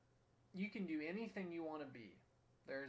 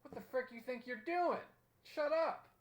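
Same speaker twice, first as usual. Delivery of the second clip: tough guy threat; 9 semitones higher, 6 dB louder than usual. Retold or imitated. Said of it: "would kind of look at him like".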